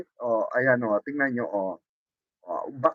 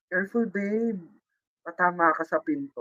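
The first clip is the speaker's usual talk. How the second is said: mock tender boyfriend voice; 2 semitones higher, 4 dB quieter than usual. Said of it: "Kaya, Alita".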